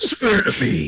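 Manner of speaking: loud heroic voice. Between plugs for their channels, delivering a line in a Batman voice. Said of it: "I'm speaking in a different tone of voice right now".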